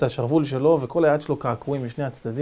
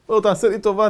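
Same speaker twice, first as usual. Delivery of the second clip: slightly raised begging; mild plea; 4 semitones higher, 4 dB louder than usual. Retold or imitated. Captive first asking the chief for mercy, mild. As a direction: ask for mercy.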